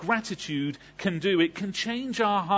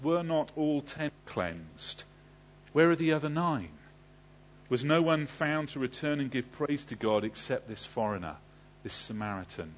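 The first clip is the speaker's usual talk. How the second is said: softly hurt questioning, slowing at first; 2 semitones lower, 5 dB quieter than usual. Acted. Jesus asks after the missing nine, quietly hurt. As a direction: read it with quiet, understated hurt. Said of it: "the hurt in his voice".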